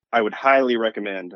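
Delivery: "highly" given a little extra weight; stress on HIGHLY. Real, not acted. Guest urging listeners to seek grants, stressing "highly". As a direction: lean on "highly" in "highly recommend". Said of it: "I'm stressing the word highly recommend".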